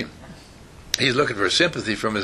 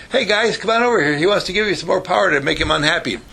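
higher, lightly acted summons; mock calling out; 5 semitones higher than usual. Mother inviting the kids who upset him, mock calling. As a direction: pretend to call the gang over.

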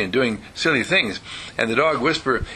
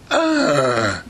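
drawn-out mock groan. Groans after mother's gloomy wish.

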